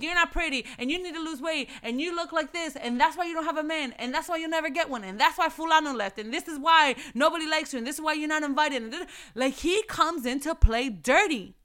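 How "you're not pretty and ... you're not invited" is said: higher, sneering voice of the devil; lightly voiced devil; mock Satan. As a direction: play a mild taunting Satan. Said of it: "he's gonna come in with".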